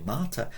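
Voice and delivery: Martyr with its first A held long; open, lengthened A in Martyr. Shown as a demonstration. Teacher repeating Latin for mother, long A in Martyr. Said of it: "With a long A".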